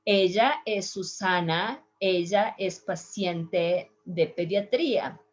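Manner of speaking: neutral accent, Ella with a y sound; neutral Spanish accent. Shown as a demonstration. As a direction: demonstrate a neutral Latin American accent. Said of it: "Let me do with a neutral accent".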